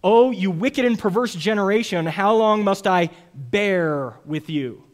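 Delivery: slow, weary exasperation; a tired sigh of a question; a touch of exasperated rebuke; exasperated Jesus. Retold or imitated. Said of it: "Jesus, kind of exasperated".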